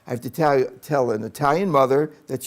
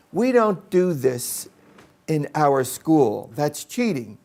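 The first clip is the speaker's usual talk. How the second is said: stern scolding; 2 semitones higher, slower than usual. Retold or imitated. Teacher scolding the third grader for cheating, slow and stern. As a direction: spell it out slowly like a strict teacher. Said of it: "She goes".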